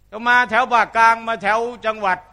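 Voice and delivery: ordinary talk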